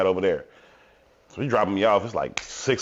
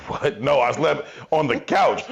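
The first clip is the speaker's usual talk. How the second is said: normal talking voice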